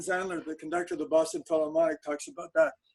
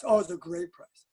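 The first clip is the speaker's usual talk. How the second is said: high enthusiastic quote; 10 semitones higher than usual. Retold or imitated. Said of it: "I turned to Jory".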